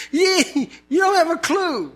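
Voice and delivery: a mock rebuke of Job; exasperated scolding, half laughing; God scolding Job. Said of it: "He goes".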